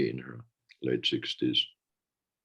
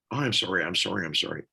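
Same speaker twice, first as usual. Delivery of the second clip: mock apology; faster than usual. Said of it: "I'm so tired of hearing".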